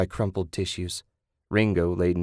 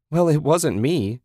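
higher, louder shouted denial; 7 semitones higher, 4 dB louder than usual. Acted. Susan denying she scratched Ted's car, shouting. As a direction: shout it back at him. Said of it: "she shouted".

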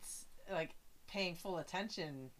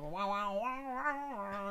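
talk box wah; 3 semitones higher, 4 dB louder, slower than usual. Retold or imitated. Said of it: "It goes".

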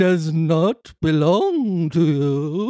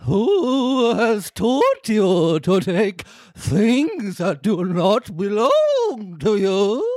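a touch spookier, more ghostly; slightly spookier. Acted. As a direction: give the line a little more ghost. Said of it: "so slightly spookier".

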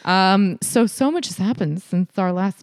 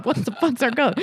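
ordinary talk

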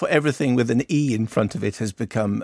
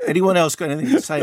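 breaking character giggling; 6 semitones higher, 3 dB louder, faster than usual. Real, not acted. Co-host catches the giggles.

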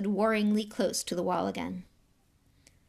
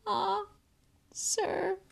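gasping elf; 12 semitones higher than usual. A narrator's reading. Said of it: "he gasped".

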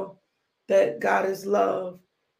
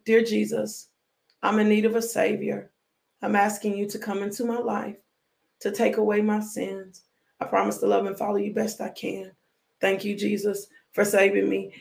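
leading a prayer. Shown as a demonstration. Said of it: "I want to pray for you".

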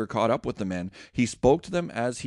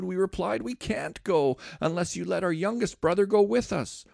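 higher, earnest begging plea; pleading Judah; 5 semitones higher than usual. Acted. Judah begs Joseph to keep him instead, a higher pleading voice. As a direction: offer yourself in the boy's place. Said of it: "Then Judah stepped forward and said".

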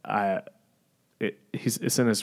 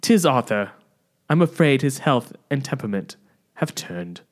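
put-on higher, theatrical Australian accent; unintended Australian accent; 4 semitones higher than usual. William telling Margaret of Arthur's illness, accidental Australian accent. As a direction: announce it like a hammy Australian actor. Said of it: "I don't know why this is Australian".

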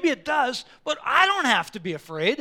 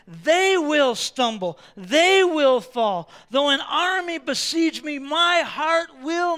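slow and louder, each word set down; slow emphatic; 4 semitones higher, 6 dB louder, slower than usual. Acted. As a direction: let every word land. Preacher hammers psalm verse.

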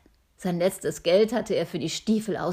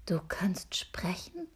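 astonished; 7 dB quieter, slower than usual. Acted. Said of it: "staunte Hannes".

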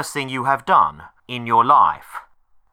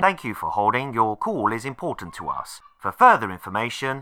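phone menu voice. Acted. Automated phone menu recording.

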